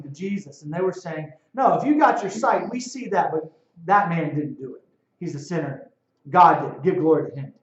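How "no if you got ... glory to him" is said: indignant Pharisees. Retold or imitated. Pharisees voiced in retelling.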